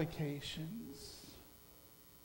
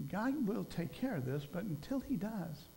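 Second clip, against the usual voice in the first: sincere resolve; 3 semitones lower, 6 dB quieter than usual. Retold or imitated.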